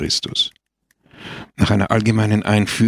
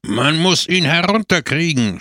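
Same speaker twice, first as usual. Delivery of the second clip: higher-pitched, outraged demand; indignant cry; 7 semitones higher than usual. A narrator's reading. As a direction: cry out like an affronted orator. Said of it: "schrie der Redner empört".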